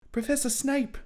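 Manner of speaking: put-on a squeaky boy's voice, way up high; high squeaky Harry. Harry calls out to Snape, high and squeaky. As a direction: pitch it way up like a startled kid.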